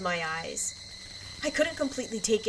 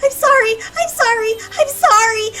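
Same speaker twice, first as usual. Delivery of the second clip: high, loud, crying pleas; sobbing apologies; 13 semitones higher, 11 dB louder than usual. Acted. Terrified child begs the staff, sobbing. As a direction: sob and beg over and over.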